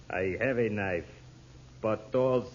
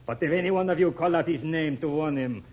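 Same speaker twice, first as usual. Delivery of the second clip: louder cold threat; menacing threat; 2 semitones higher, 4 dB louder than usual. Acted. Intruder warning the family not to call out, menacing. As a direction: threaten them with the gun.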